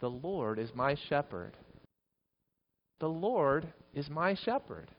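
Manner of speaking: measured, softened phrases for repeating; leading congregational recitation. Shown as a demonstration. Preacher has congregation repeat after him, in measured recitation. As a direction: lead them line by line, unhurried. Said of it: "Repeat after me".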